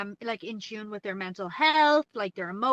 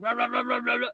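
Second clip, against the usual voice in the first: mock Tipperary accent as rapid gibberish; faster than usual. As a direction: imitate dad's Tipperary speech as a run of babble. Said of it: "so he sounds more like".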